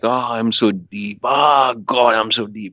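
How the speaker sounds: mock the stoner trying to sound profound; mock deep stoner. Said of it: "this very artificial deep".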